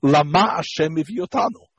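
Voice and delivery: Lama Hashem Eviotanu with la-MA; second-syllable stress. Shown as a demonstration. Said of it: "the emphasis in this second syllable".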